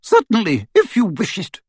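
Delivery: icy, clipped politeness; awful coldness. Acted. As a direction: freeze him with courtesy. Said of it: "with awful coldness".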